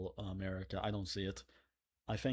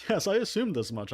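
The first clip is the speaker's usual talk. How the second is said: sarcastic; 10 semitones higher, 8 dB louder than usual. Real, not acted. Mock sarcastic reply.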